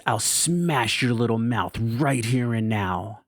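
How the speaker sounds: slow, restrained imitation of mom's threat; mock angry threat. Mom squaring off at her child, mild mock-angry threat. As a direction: menace drawn out word by word, not really yelled. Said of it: "and starts yelling".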